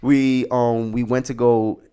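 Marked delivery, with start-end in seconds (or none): 0.0-0.5 high, loud, still laughing. Real, not acted. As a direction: talk while the laugh fades out. Still laughing after joke.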